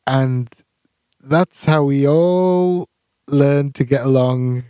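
slow, measured storyteller close; lightly done storybook outro; storybook ending. Pretend. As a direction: wrap it up like a bedtime story. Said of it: "Is that your catchphrase".

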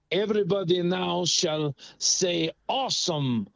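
lightly put-on Italian accent; measured, comic hint of an Italian accent; Milanese trendsetter. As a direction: decree the new fashion in a mock Italian accent. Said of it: "somebody's in Milan, Italy".

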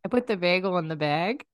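Western New York vowels in bagel and bag; Western New York accent. Shown as a demonstration. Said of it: "in your Western New York accent".

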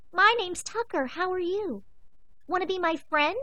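put-on high, eager young dog voice; eager puppy. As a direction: bounce in with a friendly puppy voice. The narrator dog introduces himself.

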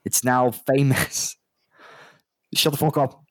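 put-on high, slow, irritated accent voice; exasperated, talking down to fools; exasperated barman. Barman snaps at the party over the word, high and slow. Barman berates copycat player.

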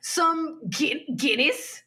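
mock British accent. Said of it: "Wait, that's us Irish".

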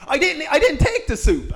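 giggling squeaky denial; high, laughing denial. Acted. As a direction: deny it like a guilty child. Ancestor denying with a laugh.

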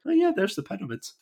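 high, offhand "oh yeah" shrug; mock casual. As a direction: toss it off like it's nothing special. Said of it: "be like".

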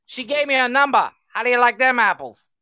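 high, loud movie taunt; imitated gloating shout. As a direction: yell the boast through a window. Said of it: "He literally bangs on the window".

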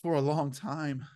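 slow sighing answer, imitated; a mild weary sigh; sighing reply. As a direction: let it out on a sigh, slowly. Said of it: "she sighs and goes".

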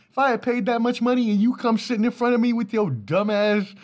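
high, loud, laughing mock rant; mock outrage. Angry fan yelling at the mascot, high-pitched and laughing.

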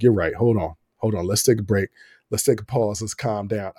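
a touch of a father saying let's cool it; dad calming down. Retold or imitated.

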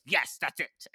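mock-enthusiastic seizing on the idea; delighted approval. Producer accepting the costume designer's wild coat, mock-delighted.

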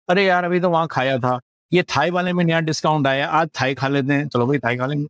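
fast, casual Hindi quote of a bargain hunter; north indian accent. Retold or imitated. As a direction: rattle it off like a deal-hunting diner. Customers chasing discounts, retold in Hindi.

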